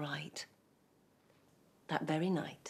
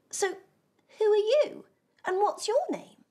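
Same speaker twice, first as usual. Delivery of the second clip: stern questioning; 13 semitones higher, 7 dB louder than usual. Acted. Eliza demands name.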